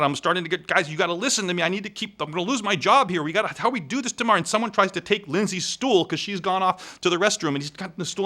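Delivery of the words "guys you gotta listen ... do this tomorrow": higher, pleading and rushed; begging a distracted crowd; panicking to be heard; agitated plea. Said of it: "I'm just freaking out".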